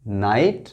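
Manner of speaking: नाइट going straight from the vowel to T; silent GH. Shown as a demonstration. Teacher repeating the word after explaining it, नाइट with silent GH. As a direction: model नाइट with no G or H sound. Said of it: "जी और एच silent है".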